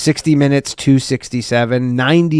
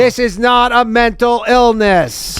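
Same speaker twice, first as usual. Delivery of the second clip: mock psychic voice; 8 semitones higher, slower than usual. Psychic take.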